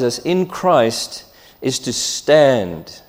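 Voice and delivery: slow, leaning hard on "stand"; stress on stand. Shown as a demonstration. Preacher to his congregation, stressing "stand" slowly. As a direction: land on the word "stand" and let it sit. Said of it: "with the emphasis on the word stand".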